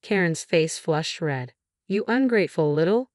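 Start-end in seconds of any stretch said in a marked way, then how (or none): 1.9-3.1 rising angry cry at ungrateful; angry outburst. Acted. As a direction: snap ungrateful up in rage. Aunt lashes out in quarrel.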